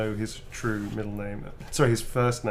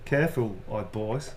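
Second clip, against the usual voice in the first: broad Birmingham line, tipping into laughter; cheeky Brummie warning; original Brummie accent. Shown as a demonstration. Recording a cheeky message for Kim in Brummie. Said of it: "that's my original accent".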